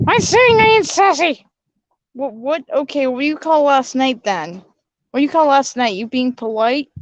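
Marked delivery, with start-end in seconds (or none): 0.1-1.5 sassy. Acted. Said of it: "she can be a little bit sassy".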